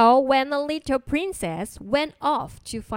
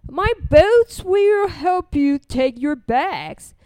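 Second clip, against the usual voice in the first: admiral; 3 semitones higher, 4 dB louder, slower than usual. A narrator's reading. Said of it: "said the admiral".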